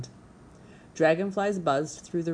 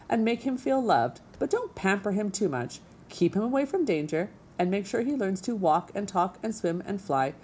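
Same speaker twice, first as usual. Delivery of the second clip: put-on brisk old goose; 2 semitones higher than usual. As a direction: breezily explain like an old goose. Old goose lectures the robot.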